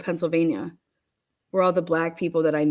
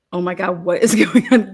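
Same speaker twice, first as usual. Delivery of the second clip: louder, laughing through the words; laughing disbelief; 5 dB louder than usual. Retold or imitated. To the wild roommate, laughing disbelief. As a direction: crack up while asking what is happening. Quoting her shock, laughing.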